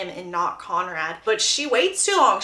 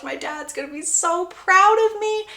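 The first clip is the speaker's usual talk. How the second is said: put-on excited kid; 8 semitones higher than usual. Boy hopeful winning wrestling match.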